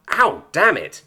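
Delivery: loud, high pained curse; pained hiss. Acted. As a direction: yelp in pain and curse. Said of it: "he hissed".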